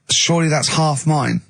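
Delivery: dry sarcastic jab. Retold or imitated. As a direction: say it with mock fairness. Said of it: "I was sort of being sarcastic".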